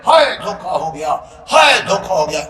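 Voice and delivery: wailing lament. Acted. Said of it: "ہر بندہ کہہ رہے گا، کہے گا".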